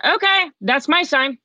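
high, drawn-out moment of revelation; slow, lifted, wonder-struck resolve; excited realization. Retold or imitated. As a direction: retell seizing on a sign. Reacts to an astonishing coincidence.

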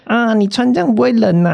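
high mock doorman, 这 leaned on, falling at the end; nosy doorman. Mimicking the building manager fussing over clothes, high and chirpy. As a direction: pitch it up and fuss over 你穿这样不会冷啊. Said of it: "他每次看到你都要寒暄个几句".

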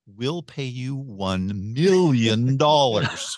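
one million dollars, drawn out slowly; slow villain offer. Retold or imitated. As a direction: dangle the money like a movie villain. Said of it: "somebody's like".

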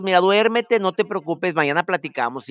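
gentle reassurance. Retold or imitated. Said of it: "se platica bonito".

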